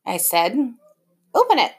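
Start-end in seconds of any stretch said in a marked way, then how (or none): 1.3-1.7 high, eager urging; pushing him to open the gift; excited. A narrator's reading. Dad eager about the surprise.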